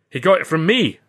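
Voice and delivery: cried out together. Acted. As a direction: blurt it out in unison. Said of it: "Ritchie and I cried".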